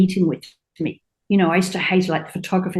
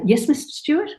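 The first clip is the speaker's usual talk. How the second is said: polite assistant; 7 semitones higher than usual. Retold or imitated. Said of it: "and I'd say".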